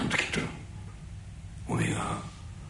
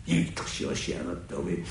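ordinary delivery

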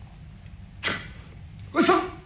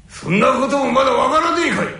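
angry; 6 semitones higher, 8 dB louder, faster than usual. Acted. Old man scolds Tetsu.

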